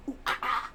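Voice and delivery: throaty nu-metal grunts, lightly done; imitation of a nu-metal band. Streamer doing a quick nu-metal singer grunt for chat. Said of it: "that was my Korn imitation".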